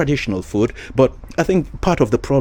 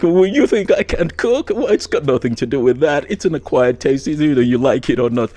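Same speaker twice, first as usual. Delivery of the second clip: imitating a miffed host, higher pitch; mock offended; 4 semitones higher than usual. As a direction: retell her indignant retort, mildly. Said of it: "She was not happy".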